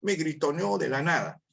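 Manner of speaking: a light imitation of someone shrugging off an insult; dismissive shrug. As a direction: wave it away like the shouter is just crazy. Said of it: "unos dirán".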